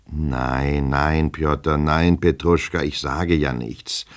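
slow, drawn-out appeasement; calm him with lengthened words; soothing. Acted. Master appeasing his offended servant, soothing.

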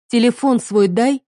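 wife demanding husband's phone; sharp demand. Acted. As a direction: demand it bluntly.

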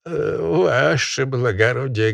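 high rattling falsetto peasant; quavering falsetto. Acted. Peasant addressing the barin in a quavering falsetto. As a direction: squeak it out nervously. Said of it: "дребезжащий фистулой".

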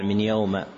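"يوم" ending in a short a; wrong fatha ending. Shown as a demonstration. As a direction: say "من يوم" as min yawma. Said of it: "فقد وقعت في مواضع".

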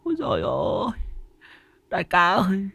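high-pitched marvelling henchman voice; gushing admiration. A narrator's reading. Henchman marvels at all the loot to his boss, high and gushing. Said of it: "Thằng Nguyên suýt xoa".

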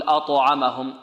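أطعمهم with a rounded "o/u" after the ط; qalqalah leaning to damma. Shown as a demonstration. Teacher shows another mistake to avoid, bounce tilted to damma. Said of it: "نميلها الضم".

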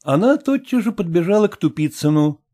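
usual speaking voice

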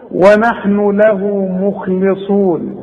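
ونحن له مخلصون very slow, with a thin light lam; correct recitation. Shown as a demonstration. Teacher giving the correct recitation. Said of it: "ورقق اللام".

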